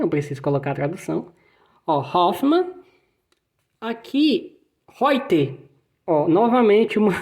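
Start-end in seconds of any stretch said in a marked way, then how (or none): 2.0-2.7 Hoffmann with breathy German h, hofman; scene: teacher models German surname, clear H sound. Shown as a demonstration. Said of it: "sobrenome muito comum na Alemanha". 4.9-5.6 Reuter said hoite, h for R, eu as oi; scene: teacher shows German sound change on Reuter. Shown as a demonstration. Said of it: "uma sílabazinha que muda o som".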